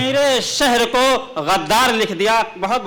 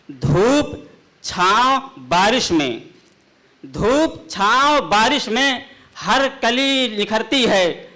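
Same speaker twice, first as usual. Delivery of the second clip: measured, declaiming poetic delivery; ghazal recitation; 3 semitones higher than usual. Acted. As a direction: recite the couplet grandly.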